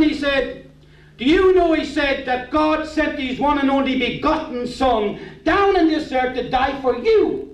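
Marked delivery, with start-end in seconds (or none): 1.2-1.7 higher, pressing pastor's question; pastor confronting him. Retold or imitated. Pastor confronts Kevin at the back door, pressing question. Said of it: "the pastor walked down to me". 2.3-7.5 slightly preachy, slow and higher; lightly voiced pastor. Pastor tells the unsaved man of God's Son, lightly preached. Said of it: "the pastor walked down to me".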